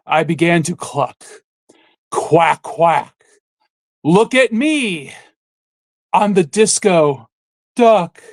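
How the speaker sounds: lines of a silly disco song read as grand poetry; mock dramatic reading. Host asks friend for a dramatic reading, mock-grand recital. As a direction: recite it like a solemn sonnet, tongue in cheek. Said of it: "could you add a bit of sophistication here with the one of your dramatic".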